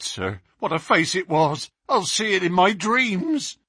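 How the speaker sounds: a jumpy policeman relieved help has come; shaken young constable. Acted.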